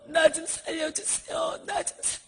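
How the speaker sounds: imitated screaming woman. A woman in hell begging to be saved, wailing. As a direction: wail and plead like a tormented soul. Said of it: "그러면서 한 여자가 막 소리를 지르는".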